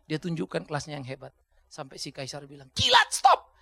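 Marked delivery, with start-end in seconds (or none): 2.7-3.5 high, loud startled exclaim; emperor's exclamation. Retold or imitated. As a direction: cut him off like a flustered king. Emperor's retold words.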